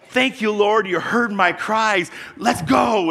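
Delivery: high, loud happy cry; mock joyful escape. Preacher imagining freedom, high loud joyful cry. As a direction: exclaim your thanks and run. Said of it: "I'd be like".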